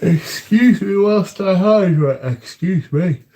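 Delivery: hammy prim politeness, slowed right down; mock posh. Mock polite aside to drink.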